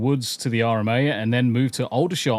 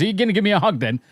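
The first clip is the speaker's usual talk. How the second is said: put-on Cockney accent; 8 semitones higher, much faster than usual. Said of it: "this Cockney accent came out".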